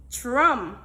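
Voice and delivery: "drum." said alone, loud and distinct; word demonstration. Shown as a demonstration. Teacher has class say the word, loud distinct demonstration of "drum.". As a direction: model "drum." firmly as a single word. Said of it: "let us say this word".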